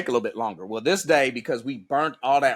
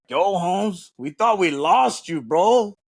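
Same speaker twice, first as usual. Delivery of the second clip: imitated Hispanic instructor; 7 semitones higher, slower than usual. Hispanic instructor to revived trainee in the truck, imitated high drawl. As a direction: stretch it out high, like greeting a lost pal.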